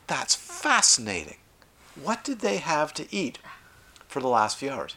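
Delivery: delight in every clue; excited pathologist. Retold or imitated. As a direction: pathologist opening up a stomach, fascinated. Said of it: "a good excited forensic pathologist".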